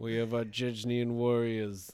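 camped-up Russian English; Russian accent drifting toward Zohan; homoerotic Russian accent. Pretend. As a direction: put on a slightly camp Russian accent. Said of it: "homoerotic Russian".

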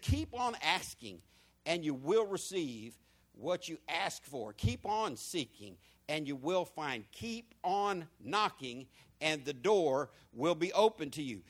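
slow reading with pauses at each comma; pausing at commas. Shown as a demonstration. Pastor demonstrating comma pauses to congregation, slow and measured. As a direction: read slowly, pause on every comma. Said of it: "that comma is calls for pause".

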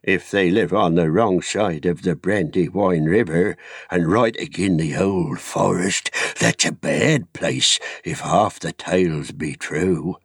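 a lightly voiced gruff old neighbour; Daddy Two-Foot. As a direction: chime in with dark village wisdom. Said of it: "put in Daddy Two-Foot".

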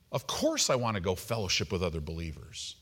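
low, soft inner-thought voice; thinking to oneself. Retold or imitated. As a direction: drop it down like a private thought. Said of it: "I'm thinking to myself".

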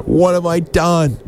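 high, slow mock anguish; overdone horrified cry; mock horror. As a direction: wail it like a hammed-up tragic hero. Horror after killing the koala.

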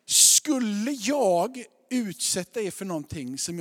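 loud, slow, drawn-out rhetorical question; hammed-up disbelief at being doubted; indignant protest. Father defending his roof idea, loud mock indignation.

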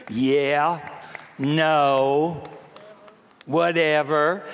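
a careless, bored "whatever"; mock teenage brush-off; dismissive kid. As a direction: shrug it off like a sulky kid. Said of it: "I listen to kids out here now".

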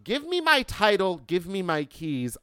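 high-pitched demanding mock scream; retold scream. Customer demanding keys back from the dealership, retold scream. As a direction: imitate yourself yelling at the dealership. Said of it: "I screamed".

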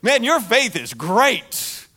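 loud "Whoa" then slow, drawn-out praise; Jesus marveling at the disciples, loud amazed praise; amazed exclaim. Retold or imitated. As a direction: sell the wonder at their faith. How many times he had said.

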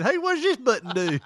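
mock pilot voice. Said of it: "last heard in the black box saying".

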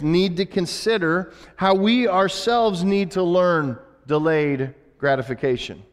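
usual speaking voice

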